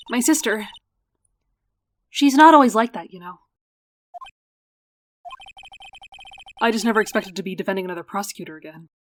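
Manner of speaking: a hint of a wistful little sister; young sister character. Sister tells lawyer how she changed, lightly voiced earnest character.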